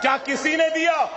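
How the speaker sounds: a rising roar of accusation; building shout. Real, not acted. Leader listing politicians who never helped, building to a shout. Crowd-rousing rhetorical climax.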